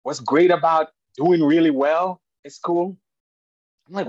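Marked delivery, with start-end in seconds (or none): 0.0-3.0 lightly voiced eager little boy, louder; son's voice. Dad retelling his son's eager question in a louder kid voice. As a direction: act out the son's excited question. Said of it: "he said".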